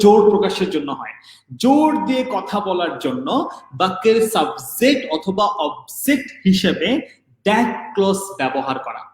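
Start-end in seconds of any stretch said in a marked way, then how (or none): 1.6-9.1 slow, measured dictation. Shown as a demonstration. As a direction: read it out slowly for students to copy. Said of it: "এটা লিখো". (ধীরে ধীরে শ্রুতিলিখন)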